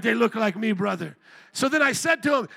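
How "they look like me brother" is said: put-on a loud, light try at a Kenyan accent; preacher imitating the Kenyan brother's reply; Kenyan accent attempt. A hint of a Kenyan accent. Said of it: "I'm trying an accent here".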